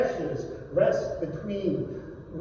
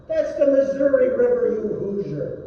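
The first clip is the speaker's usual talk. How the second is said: loud, high, fast retort; exasperated correction; 3 semitones higher, 5 dB louder, faster than usual. Acted. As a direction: snap the correction at him. Orrin correcting Ednick.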